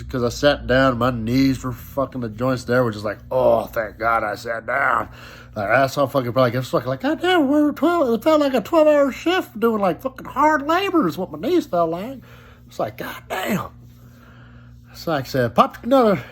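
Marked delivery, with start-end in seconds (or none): 3.3-5.1 slow relieved sigh. Retold or imitated. Knees relieved after sitting. 7.0-12.2 high, strained mock complaint; whiny self-quote. Griping to himself about his aching knees after a shift, whining up high. 13.0-13.7 breathy muttered curse. Retold or imitated. Tired under-breath curse.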